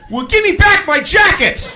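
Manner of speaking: high loud demand; mock furious demand; shouting. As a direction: yell it back absurdly. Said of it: "And I go".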